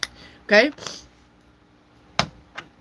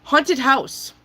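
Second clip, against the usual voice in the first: high, loud card reveal; excited announcement; 6 semitones higher, 4 dB louder than usual. Acted. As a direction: announce it with a flourish.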